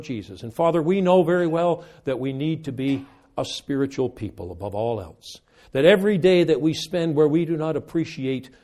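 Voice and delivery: measured, earnest prayer voice addressing God. Acted. Closing prayer.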